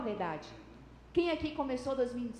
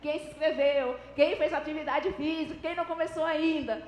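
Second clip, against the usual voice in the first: nagging motivator; 3 dB louder than usual. Retold or imitated. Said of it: "Todo domingo ela tá falando".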